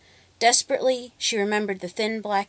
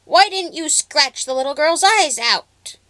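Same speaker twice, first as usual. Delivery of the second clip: much higher and louder, raging witch voice; furious witch; 8 semitones higher, 8 dB louder than usual. A narrator's reading. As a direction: rage at the cat.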